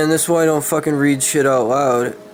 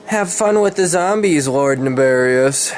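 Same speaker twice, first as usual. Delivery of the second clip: dramatic villain taunt; 3 semitones higher, 5 dB louder than usual. Acted. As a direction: ham up the villain's farewell taunt. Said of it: "Trying to be all fucking dramatic".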